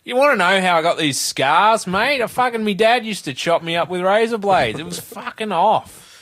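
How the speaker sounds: loud, high Australian Joker growl; Australian Joker snarling about his scars. Retold or imitated. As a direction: Heath Ledger's Joker in thick Australian, pushed up and loud. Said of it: "didn't put on an accent ... Australian accent".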